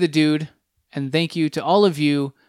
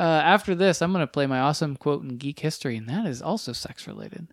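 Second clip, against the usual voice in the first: sexy voice. Pretend. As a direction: say it like a come-on. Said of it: "I said it in my sexy voice".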